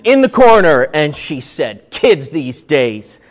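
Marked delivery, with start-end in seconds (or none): 0.0-0.8 punched repeat. Shown as a demonstration. 1.9-3.2 cranky woman. Retold or imitated. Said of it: "a little bit of a cranky woman".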